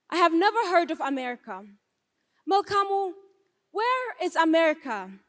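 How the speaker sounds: put-on a child's puzzled question to her father; young girl asking. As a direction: retell your small self asking, wide-eyed and quick. Child asks father about America.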